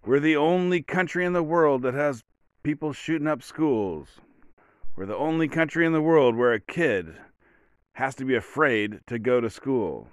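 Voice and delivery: a hint of a grave senator at the podium; quoting the senator. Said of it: "And he said something like".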